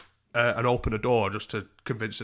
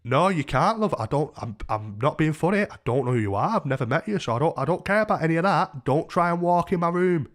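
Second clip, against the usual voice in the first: loud, higher-pitched refusal; annoyed; 6 semitones higher, 6 dB louder than usual. Retold or imitated. Refusing a stranger entry to his room, annoyed. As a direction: retell an irritated, insistent telling-off. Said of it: "I was annoyed about it".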